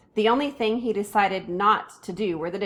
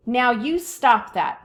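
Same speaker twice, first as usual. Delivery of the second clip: slow, firm raised voice; father yelling; 3 semitones higher, 5 dB louder, slower than usual. A narrator's reading. Father yelling at the toddler who threw his spoon. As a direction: lay down the law. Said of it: "my father yelled at Fudge".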